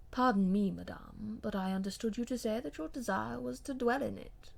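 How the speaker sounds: a hint of an icy, formal gentleman; cool and distant, turning her words back on her; wife's plea coldly deflected by her husband; lightly voiced cold husband.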